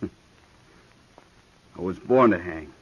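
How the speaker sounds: laughing. Acted. Gunman laughs off hanging threat.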